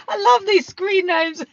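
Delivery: high laughing through the words. Real, not acted. Laughing to live viewers about their screen names. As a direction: giggle helplessly as you talk.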